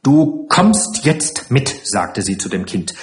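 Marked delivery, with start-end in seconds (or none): 0.0-1.7 slow, raised, insistent command; stern order. Acted. Matron orders the child along, slow and stern. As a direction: spell out the order with contained anger.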